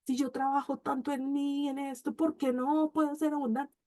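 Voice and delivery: a touch of tearful despair; tearful lament. Retold or imitated. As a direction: mildly act the weepy why-me. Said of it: "yo lloraba y todo".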